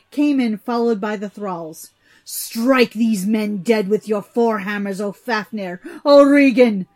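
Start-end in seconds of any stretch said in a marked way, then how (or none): 2.2-6.9 loud commanding cry. A narrator's reading. Father cries to his sons to strike the guests, loudly. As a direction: order the killing at full voice. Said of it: "their father cried".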